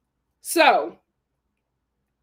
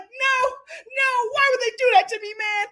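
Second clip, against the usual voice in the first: imitating Rob; 9 semitones higher than usual. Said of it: "He's like".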